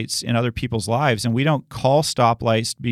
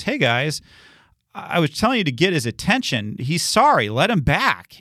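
a lightly voiced, gentle apostle pleading, higher; Paul's gentle plea; 4 semitones higher than usual. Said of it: "where Paul sends the letter and goes".

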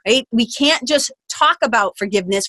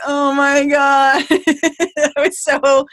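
nervous excitement; 5 semitones higher, much slower than usual. Retold or imitated.

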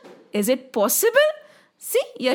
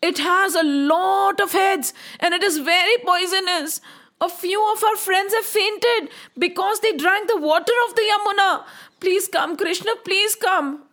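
put-on slightly raised, urgent child's plea; pleading child; 4 semitones higher than usual. Frightened friends beg Krishna for help, pleading.

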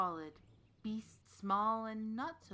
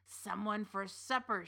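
witch voice. Acted. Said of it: "she cried".

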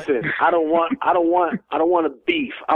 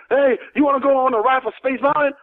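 higher teasing pickup line; old wrestler hitting on a lady, sleazy; sleazy come-on; 9 semitones higher than usual. Retold or imitated. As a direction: lean in and lay it on. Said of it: "he's telling a lady".

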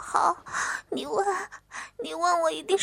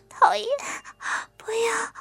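tearful begging; 3 semitones higher than usual. Acted. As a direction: beg him to stop, sobbing. Girl begs amid humiliation.

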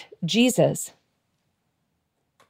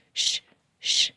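whispered shh shh; breathy hush like a lullaby; shushing whisper; 6 dB quieter than usual. Shown as a demonstration. Pastor demonstrating the kids' song, whispered hush. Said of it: "this is how that song went".

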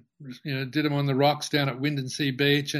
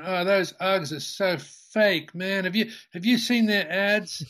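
put-on higher, slow scoffing surfer-kid voice; mocking surf kids; 4 semitones higher than usual. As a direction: sneer at the ads like a young surfer. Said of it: "came out going".

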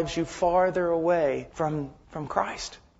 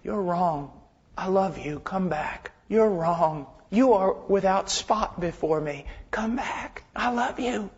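tender correction; slower than usual. Acted. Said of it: "he says it like this".

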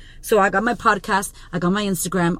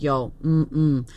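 lower, softer mock-serene voice; lower, hushed namaste calm; zen self; 6 semitones lower, 4 dB quieter, slower than usual. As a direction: play the calm enlightened version of yourself. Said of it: "I was like".

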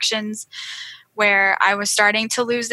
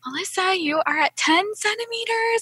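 much higher, rising to loud delight; midwife's joyful news; 13 semitones higher, 4 dB louder than usual. Retold or imitated. Midwife telling the mother she is ready to push, overjoyed. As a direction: announce it like the best news ever. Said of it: "so soft-spoken and calm".

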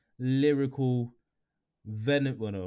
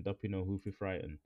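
English accent; 4 semitones lower, 8 dB quieter than usual. Shown as a demonstration. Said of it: "I did it in a very English accent".

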